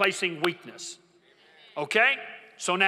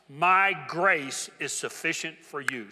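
slow emphatic reading; slower than usual. Shown as a demonstration. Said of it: "Say it with me".

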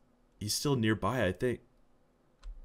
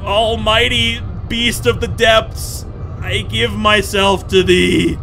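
slow, louder mock-solemn prayer; mock worship; 6 semitones higher, 6 dB louder, slower than usual. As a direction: offer yourself grandly to the beast.

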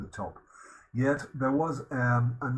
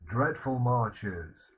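quoting the verse; 4 dB louder, slower than usual. Shown as a demonstration. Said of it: "a long list of things they used to do".

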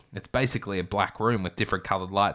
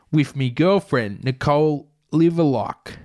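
criminal; 4 semitones higher, 5 dB louder than usual. Retold or imitated. Voicing the criminal.

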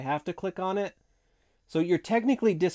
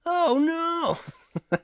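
Mikey voice; 14 semitones higher than usual. Acted. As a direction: belt it like a hyped cartoon turtle. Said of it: "that's the best I can do".

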